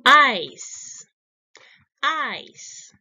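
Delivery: loud, then plain modelling of the word; model word. Shown as a demonstration. Teacher models vocabulary word for children, loud and clear. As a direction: say it out for the class to copy. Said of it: "read your answer loudly".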